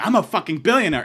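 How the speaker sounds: mock billionaire boast. Haggling in the park, loud billionaire boast. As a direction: shout the brag. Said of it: "I'm haggling".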